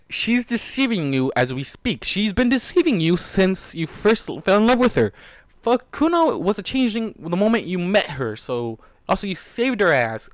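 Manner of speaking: real angry rant. Real, not acted. Reader shouting at Warden about Kuno's deception, furious. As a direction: rant at the character in rising fury. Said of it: "I'm so fucking angry".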